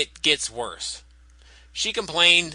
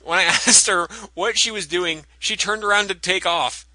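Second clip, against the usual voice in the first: folksy Southern security guard; Southern accent; 4 semitones higher, 3 dB louder than usual. Retold or imitated. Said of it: "also in the country singer's voice".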